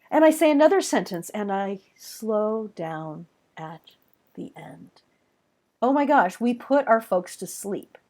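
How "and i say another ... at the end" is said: rhythmic monotony. Shown as a demonstration. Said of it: "that kind of rhythmic monotony".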